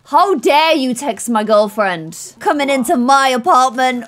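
mock yell. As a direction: play the jealous boyfriend giving a telling-off. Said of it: "start yelling at Dana".

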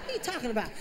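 usual speaking voice

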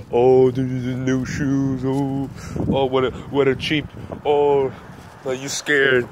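slow, drawn-out teasing; mock being impressed, then needling. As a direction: tease with stretched-out oohs. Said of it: "was mocking".

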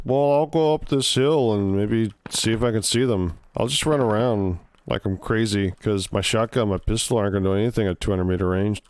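casual Canadian buddy voice; Canadian accent. Retold or imitated. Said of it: "try to do a Canadian accent".

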